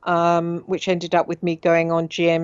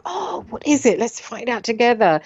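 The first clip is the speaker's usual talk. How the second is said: friendly helpful neighbour; 4 semitones higher than usual. Retold or imitated. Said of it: "I would go".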